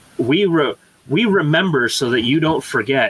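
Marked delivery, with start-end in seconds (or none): none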